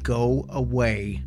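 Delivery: slow, hissed creature voice; hissing creature voice. A narrator's reading. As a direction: hiss it slowly like a creature. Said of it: "in a hissing voice said".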